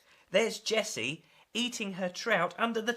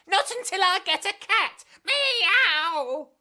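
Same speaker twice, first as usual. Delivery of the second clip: higher, louder stubborn demand; defiant meow; 11 semitones higher, 6 dB louder than usual. Acted. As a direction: insist like a cat. Defiant girl meows.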